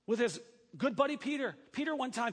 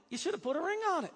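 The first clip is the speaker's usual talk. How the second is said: sassy quote; 8 semitones higher, faster than usual. Acted. Quoting a pop song line.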